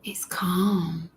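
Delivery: soft hushed whisper. Real, not acted. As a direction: let it fade into a whisper. Calm breathing guidance.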